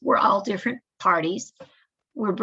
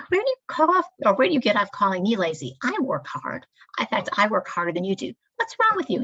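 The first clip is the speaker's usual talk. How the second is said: angry comeback; faster than usual. Acted. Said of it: "the second person whips around and goes".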